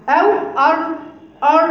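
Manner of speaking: أر with a slow lisped r; lisped r demo. Shown as a demonstration. Teacher demonstrates a faulty r, slow. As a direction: drag out a faulty أر. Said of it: "سواء اللدغة".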